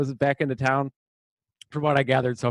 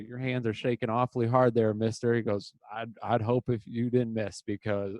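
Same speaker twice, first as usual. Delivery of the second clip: tough cowboy line; 3 semitones lower than usual. Retold or imitated. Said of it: "delivers one of the sickest lines".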